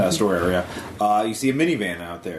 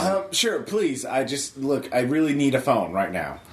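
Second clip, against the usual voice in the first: pleading woman's voice; 2 semitones higher than usual. Acted.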